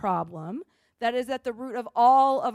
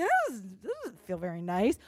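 put-off reaction; 3 semitones lower than usual. Pretend. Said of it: "You think".

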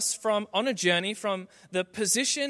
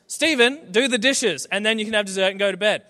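imitating a parent's loud, high-pitched order; stern parent; 3 semitones higher, 8 dB louder than usual. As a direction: order the child firmly, in mock exasperation. Acted parent ordering the teenager.

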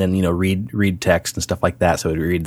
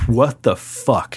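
imitating angry wife; 3 semitones higher, much slower than usual. Retells wife's angry reply.

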